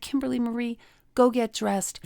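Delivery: a hint of a stern mother; stern mom. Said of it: "when she wasn't happy with me".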